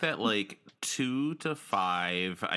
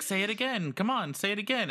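very high, eager pleading; imitated mom egging on her baby; excited coaxing mom; 12 semitones higher, faster than usual.

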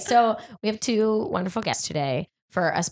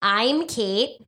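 host voice. Pretend. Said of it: "Get your smooth voice on".

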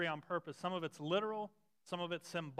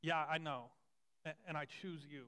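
gentle voice of Jesus; 2 semitones lower, 4 dB quieter than usual. Retold or imitated. Preacher voicing Jesus to a doubting believer, soft and tender. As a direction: speak softly, as Jesus choosing them. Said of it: "Jesus' voice saying".

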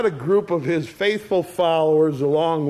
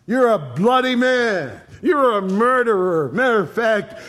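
mock shouted insults. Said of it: "he shouts down to David".

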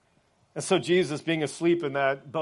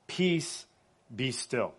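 measured words, falling low and soft; calm command; 3 semitones lower, 5 dB quieter, much slower than usual. Acted. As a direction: still a storm with quiet authority. Acting Jesus calming the storm.

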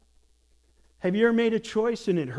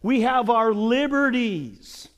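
entitled defiance; 2 semitones higher than usual. Retold or imitated. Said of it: "they were saying".

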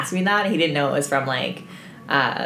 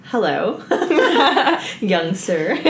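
posh grandma greeting through laughter; prim granny greeting young men; mock old lady; 3 semitones higher, much slower than usual. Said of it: "And I was like".

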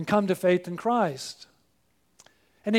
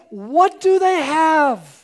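amazed question; 5 semitones higher, 7 dB louder, much slower than usual. Retold or imitated. Prisoners quoted in wonder.

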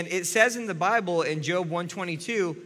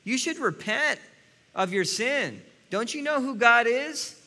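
judgmental scolding; 5 semitones higher than usual. Retold or imitated. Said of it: "we can say".

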